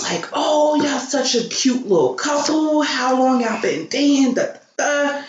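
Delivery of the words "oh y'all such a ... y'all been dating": lightly voiced drunk stranger, pitched up; a hint of a chatty drunk; drunk man. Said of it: "He was blasted".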